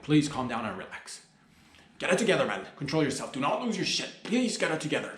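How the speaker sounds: a crowd addressed in pretend panic; mock panicked plea. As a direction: fake alarm, begging everyone to stay cool.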